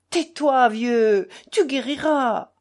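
high, loud, brusque reassurance; gruff cry. A narrator's reading. Krasotkin tells his sick friend he'll recover, gruffly. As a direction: cut him off gruffly, with force. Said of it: "cria Krasotkin d'un ton bourru".

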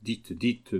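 softly murmured urging. A narrator's reading. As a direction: drop the voice to a murmur. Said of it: "murmura le général".

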